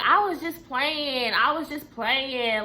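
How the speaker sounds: defensive mock protest. Coworker excusing herself to an annoyed colleague, mock defensive. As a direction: imitate her brushing it off, dragging the words.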